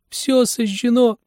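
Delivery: put-on high, slow wailing cry of a boy; boy's cry. A narrator's reading. Apprentice cries to master about the fire, high slow wail. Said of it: "Он воскликнул".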